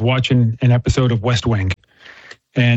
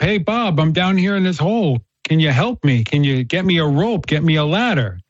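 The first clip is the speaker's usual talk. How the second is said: retold shout up, raised pitch at first; mild mock call for help; 3 semitones higher than usual. Trapped man in the story calls up to friend Bob, mild mock shout. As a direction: call up to a buddy, without real volume. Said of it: "you know, he's screaming up".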